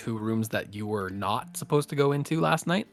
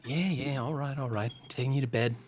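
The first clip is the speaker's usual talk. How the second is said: soothing parent; faster than usual. Acted. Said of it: "she's carrying him up".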